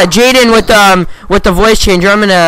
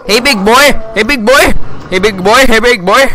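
flirty mock come-on; 4 semitones higher than usual. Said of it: "I want the voice changer guy to say something funny".

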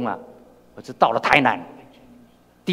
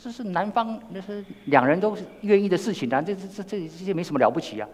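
a lightly voiced, higher, easygoing roommate brushing it off; roommate's casual reply; 8 semitones higher than usual. Preacher voicing his college roommate who says it's no big deal, lightly higher. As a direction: shrug it off like the carefree roommate. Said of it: "他就说".

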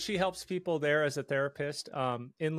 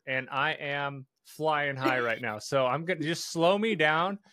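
wired on green tea; hyped up, a bit revved; too much caffeine. Real, not acted. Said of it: "this is me on caffeine".

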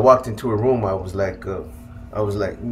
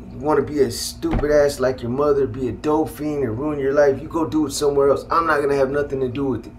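higher-pitched imitation of mom laying into her son; retold scolding; 4 semitones higher than usual. Mom refusing son who wants to try it, imitated angry tirade. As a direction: lay into him, lightly acted. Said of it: "she fucking laid into me again".

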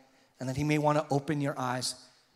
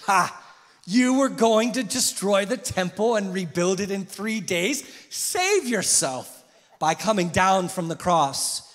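mocking jeer; 4 semitones higher, 4 dB louder than usual. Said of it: "were hurling abuse at him".

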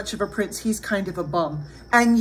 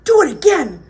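high, eager demand; cheering princess at a raised pitch; excited urging; 7 semitones higher, 8 dB louder than usual. Acted. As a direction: egg the dragon on. Elizabeth eggs dragon on.

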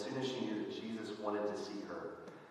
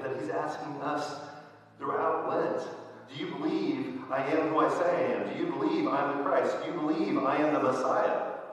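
louder, higher, pressing the questions home; forceful preaching; 4 semitones higher, 8 dB louder than usual. Acted. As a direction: demand an answer from the congregation, loudly.

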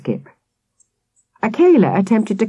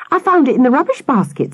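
put-on excited boy; 10 semitones higher, faster than usual. Sam excited about his find.

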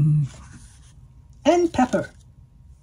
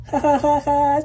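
embarrassed laugh; 6 semitones higher than usual. Real, not acted. Caught off guard on camera.

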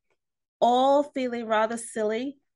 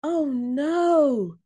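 higher, drawn-out mock wail; cry of despair; 4 semitones higher, 3 dB louder than usual. A narrator's reading. Pig fearing they came too late for Duck, despairing. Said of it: "Pig cried in despair".

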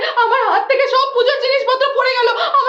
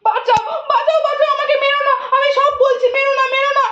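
higher, begging cries for help; hammed-up frightened begging, pitched higher; mock panic; 5 semitones higher than usual. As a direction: plead frantically not to be beaten. Caught impostor begs for mercy.

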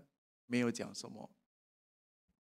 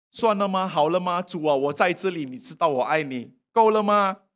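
challenging; 4 dB louder than usual. Acted. Preacher challenges the congregation.

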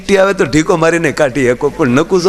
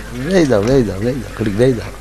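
soft coaxing offer; 5 semitones lower, 4 dB quieter than usual. Retold or imitated. Offering a seat to the audience.

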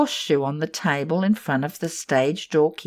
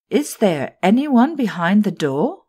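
louder, forcing courage into it; very loudly; 4 semitones higher, 4 dB louder than usual. Acted. Sorelli calls to the door, loud with forced courage. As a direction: call out bravely through the door. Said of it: "said very loudly".

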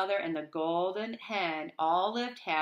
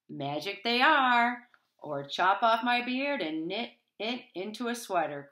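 croaking little man; 4 semitones higher, 3 dB louder than usual. Acted. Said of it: "croaked the little man".

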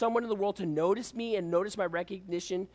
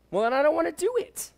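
loud, high, hammed-up refusal; mock defiant refusal; 11 semitones higher, 8 dB louder, faster than usual. Husband refuses wife's chore, loud mock defiance. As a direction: blurt it out high and loud, comically.

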